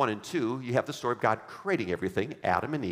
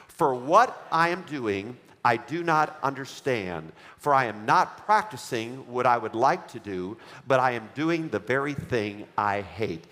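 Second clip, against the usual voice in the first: slow, deliberate Bible reading; scripture reading; slower than usual. Acted. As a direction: read the verse aloud together, unhurried. Congregation reads Romans aloud.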